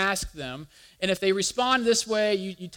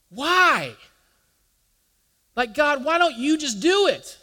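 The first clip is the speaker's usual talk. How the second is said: mock complaint; 6 semitones higher, 7 dB louder, slower than usual. Imitated complaint to God.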